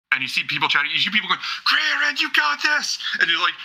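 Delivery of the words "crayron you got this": high-pitched fan calling out; excited high shout of support; crowd cheer. Acted. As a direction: cheer your champion on from the stands.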